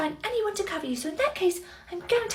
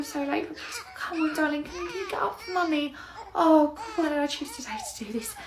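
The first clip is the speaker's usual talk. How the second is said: pleading mother. Acted. Mother coaxing tantrum child.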